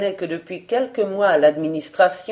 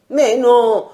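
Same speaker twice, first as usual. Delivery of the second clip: higher, louder, hurried denial; quick correction; 5 semitones higher, 6 dB louder than usual. Acted. Old guard to panicking colleagues, quick loud correction. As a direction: cut them off, correcting them fast. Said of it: "s'empressait de rectifier".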